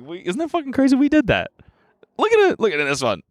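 excited, high-pitched gushing; giddy new-parent squeal; retold gushing. Retold gushing over baby pictures.

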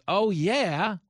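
the penny drops; sudden realization. Retold or imitated.

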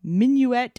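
attempted French, said carefully; French pronunciation. Shown as a demonstration. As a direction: try the French title. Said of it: "are you trying to speak French?".

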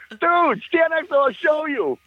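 high, eager mock urging; egging a friend on, voice pitched high; excited urging. Urging Derek at the photo.

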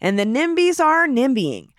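punchy scripted podcast headlines; show intro read. Acted. Host opening the Denver news podcast, scripted intro read. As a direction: announce today's stories with lifted emphasis.

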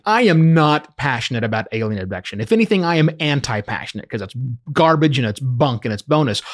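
firm, dismissive rant; with conviction. Real, not acted. Host on why alien abduction is bunk, with conviction. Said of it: "did you notice the conviction".

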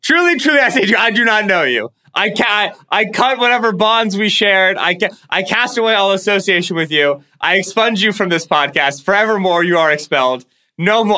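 hammed-up prophet, casting them off; mock biblical renunciation. Fan disowning the Falcons in mock scripture, hammed-up sermon.

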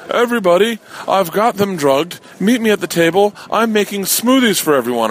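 a hammed-up creepy host hollering; calling out. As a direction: call everyone to the table. Old man calling to everyone.

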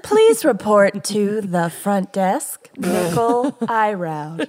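PA announcement. Pretend. Mock intercom announcement.

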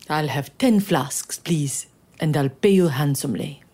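hushed whispered king. Acted. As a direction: whisper the order as if secret. King orders more chocolate.

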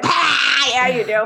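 laughing through a sultry line; laughing mock sultry reply. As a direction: giggle while playing it sexy. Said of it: "And I'd be like".

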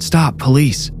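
put-on young officer shouting at the man; shouted. A narrator's reading. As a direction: bark the warning. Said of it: "Dan copied Toby's stance and shouted".

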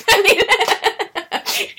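high burst of laughter over the words; cracking up at her own worry; real laughter. Real, not acted.

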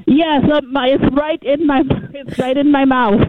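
muffled, phone in the mouth; boomy, like inside a cave; cave echo. Real, not acted. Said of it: "That's why it sounds like you're in a cave".

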